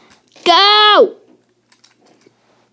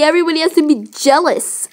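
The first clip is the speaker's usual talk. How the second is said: snide mock of her words; mocking imitation; faster than usual. Dog mocking vain date's words, mock imitation. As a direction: mimic her to mock her vanity. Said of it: "Oh, look at me".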